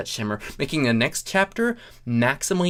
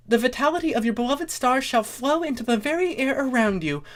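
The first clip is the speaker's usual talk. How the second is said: high scheming pony voice; 11 semitones higher than usual. Acted. Voices Starlight's breatharian pitch.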